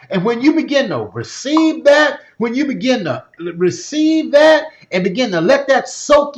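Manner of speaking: rising preacher cadence, punching each "you"; preaching with rising conviction. Acted. Preaching to the audience.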